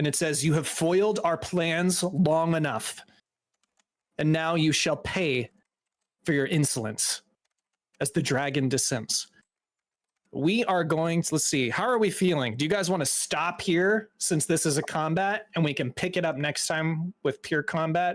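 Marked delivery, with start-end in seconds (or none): 0.4-7.2 grand, declaiming voice from above. Narrating a tabletop game to the players, speak as a voice booming from overhead. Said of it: "a voice that booms overhead".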